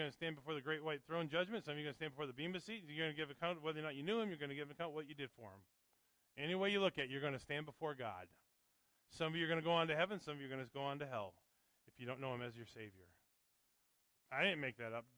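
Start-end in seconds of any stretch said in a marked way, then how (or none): 6.4-13.1 fiery pulpit preaching; full-force preaching. Acted. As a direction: preach it out to the back row.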